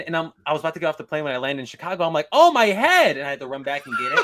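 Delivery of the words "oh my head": high, loud sudden gasp of realization; oh no, forgot it; sudden panic. Retold or imitated. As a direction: blurt it out as it hits you.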